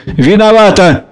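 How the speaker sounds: sarcastic, sharp apology; mock him while still angry. A narrator's reading. Varya to Lopakhin after hitting him, in a sarcastic angry tone. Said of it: "сердито и насмешливо".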